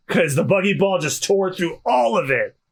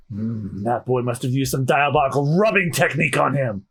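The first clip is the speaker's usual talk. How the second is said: pondering henchman; 4 semitones lower than usual. Acted. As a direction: mull it over in a lowered voice. Crew member pondering the mysterious warning.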